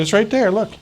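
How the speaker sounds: high, loud triumphant point; excited exclaim. Retold or imitated. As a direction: jab at the page, look, it's right there. Triumphantly showing the page.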